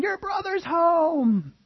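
very high, slow, put-on servant voice; excited servant. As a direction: drag it out with giddy delight. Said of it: "servant answers".

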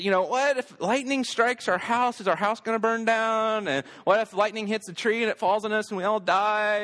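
high-pitched worried child, imitated; nervous kids. Kids asking dad about lightning during a storm, imitated nervous worry. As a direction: voice a kid fretting through worst cases. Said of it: "they're nervous and they're scared".

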